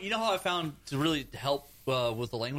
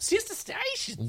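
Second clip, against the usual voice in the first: radio jingle voice; slower than usual. Acted. Jingle-like station name.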